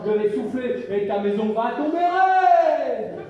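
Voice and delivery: slow menacing wolf threat. Acted. Wolf threatens the pig, slow and menacing. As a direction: draw out the threat slowly.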